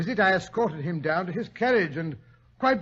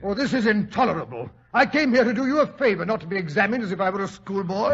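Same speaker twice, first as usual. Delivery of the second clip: indignant outburst; 3 semitones higher, 3 dB louder, faster than usual. Acted. Doctor outraged at being quizzed.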